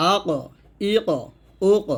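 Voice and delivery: আ, ক with a full echo on the stopped ক; heavy qalqalah. Shown as a demonstration. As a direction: bounce ক off each vowel, thick and rounded. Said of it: "তখন কলকলা মোটা হবে".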